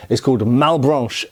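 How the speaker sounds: put-on names the demon in a French accent. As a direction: say Malbranche the French way. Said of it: "I don't know why I said that in a French accent".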